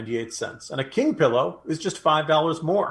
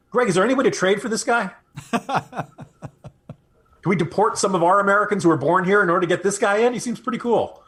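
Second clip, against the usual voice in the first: laughing; 5 semitones higher, 3 dB louder than usual. Real, not acted. Jokes about trading for migrant.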